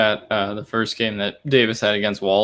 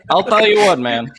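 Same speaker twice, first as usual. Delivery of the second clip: higher, louder folksy coach voice; Gruden impression; 8 semitones higher, 5 dB louder than usual. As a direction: ham up the coach catchphrase. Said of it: "Why does he talk like".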